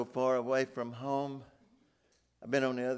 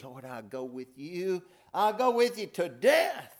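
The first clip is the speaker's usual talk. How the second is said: earnest vow; 6 semitones higher, 5 dB louder than usual. Acted. Peter vowing loyalty.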